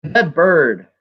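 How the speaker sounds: deliberate recital with long pauses; poetry reading. Acted. Poet begins Omens for a livestream, spaced-out recital. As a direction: announce the title, then space out each image.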